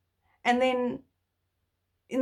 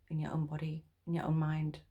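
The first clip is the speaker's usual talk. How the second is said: hushed, intimate whisper; 3 semitones lower, 7 dB quieter, faster than usual. Real, not acted. Advising viewers not to be prisoners, whispered. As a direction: breathe it to the viewer.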